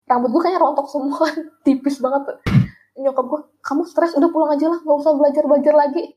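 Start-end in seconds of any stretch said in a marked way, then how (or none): 3.6-6.1 slightly higher, lightly voiced mom; worried mother. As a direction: imitate a mother gently urging over the phone. Worried mother on phone urges return.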